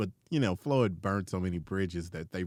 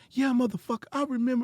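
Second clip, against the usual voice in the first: playful payback, savoring the grudge; mock grudge; faster than usual. Comedian retelling his comeback to Tone a year later, mock menacing.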